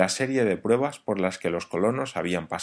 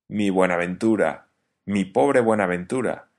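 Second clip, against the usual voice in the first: dismayed lament; 5 dB louder than usual. Acted. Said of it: "verdaderamente consternado".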